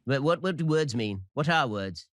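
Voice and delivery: put-on Kiwi accent gone British, like a Lord of the Rings elf; lofty elf voice, drifting from Kiwi to British; elvish British lilt. Pundit hamming a Tolkien elf accent on words. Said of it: "he just sounds like one of the elves".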